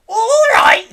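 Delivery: high, loud outraged echo; indignant yell. A narrator's reading. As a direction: fling the words back at him. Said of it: "she yelled".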